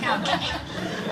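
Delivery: breathy little whisper through a laugh; shy whispered okay. Retold or imitated. Storyteller voicing shy Jerry agreeing in a whisper.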